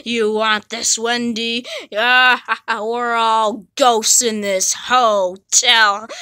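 low creepy taunt. Acted. Ghost taunting Wendy.

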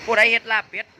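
loud call across the room. Real, not acted. Asking the room who made the duck larb, loud call. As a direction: shout it to the whole room.

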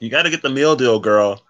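imitating hyped friend. Retold friend pushing meal deal.

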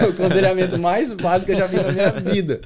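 loud, laughing quote of the pastor; laughing retelling. Retold or imitated. Speaker retelling the pastor's verdict on easiest counselling, laughing loudly. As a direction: repeat the punchline loudly through laughter.

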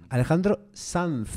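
the surname carefully ended in a th sound; careful Castilian surname, z as th; pronunciation demo. Shown as a demonstration. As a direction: model the singer's name with final z as th. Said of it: "te lo estoy diciendo yo".

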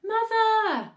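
high, loud stretched "Mother"; sustained frantic cry; panicked shriek. A narrator's reading. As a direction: scream for her attention. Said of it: "shrieked Missus Cranky".

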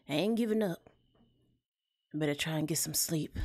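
lightly Southern tired mama; Southern accent. Acted. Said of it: "giving my characters that southern accent".

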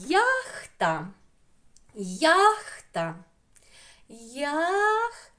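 ЯХТА said loudly, each vowel stretched; drawn-out word demo. Shown as a demonstration. Teacher has pupils say the word, ЯХТА slowly sounded out. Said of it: "І так кажемо слово".

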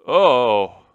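moan. A narrator's reading. General fallen onto the grate, loud moan. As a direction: groan out a long "oh". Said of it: "he moaned feebly".

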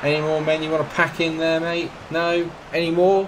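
sarcastic taunt at the packed defence; sarcastic jibe. Real, not acted. Mocks opponent packing defence.

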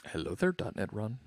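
creaky fry on every word; Walter White vocal fry. Acted. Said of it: "I start to sound like Walter White ... I do the vocal fry on it".

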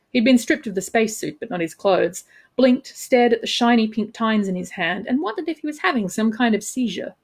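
measured, expressive audiobook reading; story narration. A narrator's reading. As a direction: narrate the scene with crisp dramatic phrasing. Author reads own novel aloud.

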